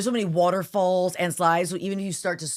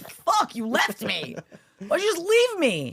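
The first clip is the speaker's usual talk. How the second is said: put-on much higher, slow, tearful kid's complaint; crying little boy; 8 semitones higher, slower than usual. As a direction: whine it like a hurt, scared child. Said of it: "he was like".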